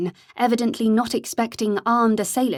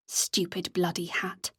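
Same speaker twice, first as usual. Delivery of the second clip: breathy whisper to herself; a private whispered curse; whispered thought; 2 semitones lower, 8 dB quieter than usual. A narrator's reading. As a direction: hiss it under the breath, self-reproach.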